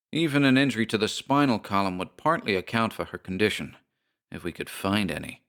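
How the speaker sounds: lightly voiced puzzled doctor; a hint of a grave specialist; doctor's voice. Doctor admits to narrator he is puzzled, lightly voiced.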